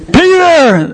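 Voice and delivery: put-on high, excited call of a little girl; she's amazed to see him at the door; little girl at the door calls out in surprise; surprised girl. Little girl sees Peter.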